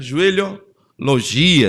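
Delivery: Joelhologia drawn out slowly, syllable by syllable; slow emphatic Joelhologia. Shown as a demonstration.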